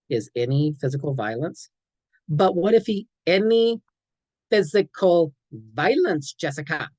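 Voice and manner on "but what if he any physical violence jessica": higher, louder pleading protest; doubtful teen objection. Shown as a demonstration. Teen talks back to the counselor, high and pleading. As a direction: push back like a teen who can't believe it. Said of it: "Sorry, kid, these are brute facts".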